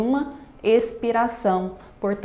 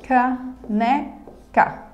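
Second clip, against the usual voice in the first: "Caneca" in three slow beats: ca, ne, ca; syllable by syllable; 3 semitones higher, much slower than usual. Shown as a demonstration. Teacher dividing a word for students, syllable by syllable. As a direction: pause after each syllable of "Caneca". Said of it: "Na divisão silábica e na pronúncia".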